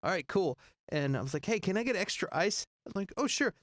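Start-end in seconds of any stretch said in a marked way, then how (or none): 1.5-2.6 higher-pitched asking voice; acted polite request. Acting out his polite request. 3.2-3.5 high-pitched breezy assent; acted agreeable server. Acting out the server's answer.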